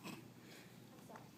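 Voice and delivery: very soft, slow, low and halting; fighting back tears. Acted. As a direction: apologize while trying not to cry. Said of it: "I don't want to cry".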